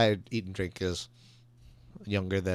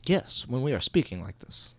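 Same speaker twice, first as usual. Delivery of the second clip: deliberately measured, each word set apart; playing along with a mock-flat way of talking; mock flat speech; 3 semitones higher than usual. Answering the co-host's demo, mock flat and deliberate. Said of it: "when we're speaking flat like this".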